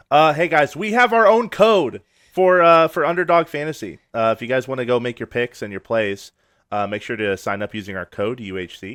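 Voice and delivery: ad read. Acted. Reads the sponsor ad.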